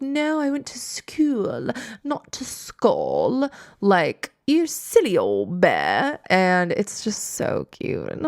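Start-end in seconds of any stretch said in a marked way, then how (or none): 0.0-6.2 Christopher Robin. Retold or imitated. Christopher Robin voiced in recap.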